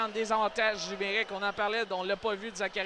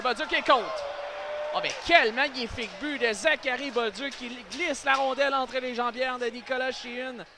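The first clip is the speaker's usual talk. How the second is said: higher, thrilled commentary; excited goal call; 5 semitones higher than usual. Real, not acted. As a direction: celebrate the goal on air. (commentaire exalté)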